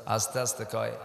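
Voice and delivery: said softly, as huzurs mumble. Shown as a demonstration. Preacher showing the crowd how huzurs speak, softly. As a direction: drop to a soft hush on আস্তে আস্তে. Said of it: "জোরে জোরে কয় না আস্তে আস্তে কয়".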